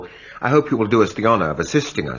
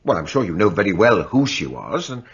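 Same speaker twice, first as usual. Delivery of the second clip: pressing demand. Acted. Magistrate pressing reluctant servant.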